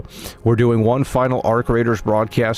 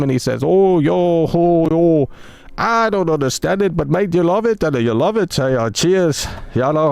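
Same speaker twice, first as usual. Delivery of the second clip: mock British accent. Streamer teasing his chat in a mock British accent. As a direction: play a cheeky British lad with a mock accent, pitched up. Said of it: "they get mad that I'm making the voice".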